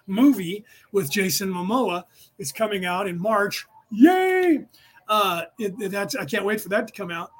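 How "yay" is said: excited cheer. Real, not acted. Cheering about the Dune movie.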